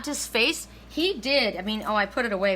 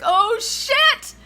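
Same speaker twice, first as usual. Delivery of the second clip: very high, loud mock panic; comic startled outburst, pitched way up; imitated alarm; 12 semitones higher, 6 dB louder than usual. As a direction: shriek it in hammed-up dismay. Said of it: "he looked at me like".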